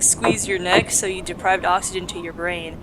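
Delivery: ordinary delivery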